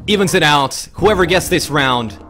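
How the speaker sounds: excited caster. Real, not acted. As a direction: ride the momentum of the round. Hyped after round win.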